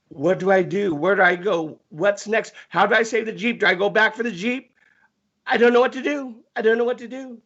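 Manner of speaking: string of anxious questions, climbing toward the end; retold panic. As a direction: act out mild rising panic. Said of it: "panicking, like".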